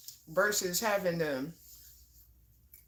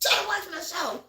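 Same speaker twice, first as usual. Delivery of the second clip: higher whiny quote; mock complaint; 11 semitones higher than usual. Quoting Alexis complaining about her show, mock whine. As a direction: grumble like a bothered roommate. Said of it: "Alexis came in and said".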